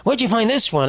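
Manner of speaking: lightly mocked old man fawning over a girl; a hint of gushing old-man admiration; imitated old man. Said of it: "an old man, and they just go like".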